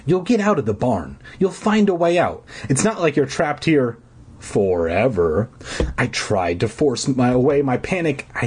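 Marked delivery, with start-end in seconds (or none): 0.0-5.5 self-soothing. Acted. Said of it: "I told myself".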